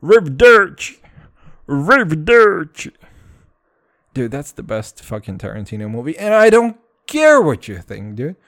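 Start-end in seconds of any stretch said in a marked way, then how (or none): 0.0-2.9 loud, higher exaggerated Italian farewell; hammy Italian accent. Quoting the movie's best line, loud hammy Italian accent. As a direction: bellow it like a proud fake Italian. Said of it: "said like".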